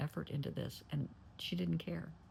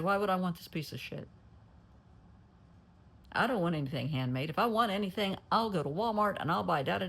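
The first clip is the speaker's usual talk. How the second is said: retold angry rant, somewhat louder; angry mother; 3 semitones higher, 5 dB louder than usual. Mother yelling at her son over his handmade gift, angry retelling. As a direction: voice the mother scornfully throwing the gift back.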